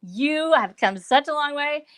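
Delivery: playful mock fangirl gushing at the host; fangirl squeal. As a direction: squeal and gush like a starstruck fan. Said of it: "I need to do a fangirl squeal".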